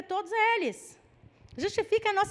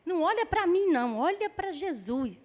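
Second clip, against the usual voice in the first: gospel cliché; 2 semitones higher than usual. Retold or imitated. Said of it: "esse é um jargão gospel".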